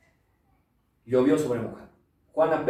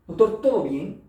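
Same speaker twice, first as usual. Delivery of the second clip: excited patient; 9 semitones higher, 8 dB louder than usual. Retold or imitated. Patient voiced in story.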